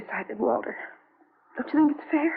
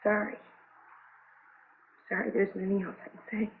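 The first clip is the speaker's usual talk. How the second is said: tearful; 4 semitones lower, 8 dB quieter than usual. Acted. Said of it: "Nothing to cry about".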